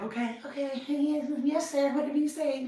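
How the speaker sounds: high, eager, submissive yes sir; meek yes-man. Retold or imitated. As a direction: play the obedient little assistant. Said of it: "like his little bitch".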